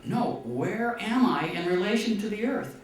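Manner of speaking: high, loud, exasperated shout; yelling back down. Retold or imitated. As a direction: shout down again, impatient. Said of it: "And he yells back down".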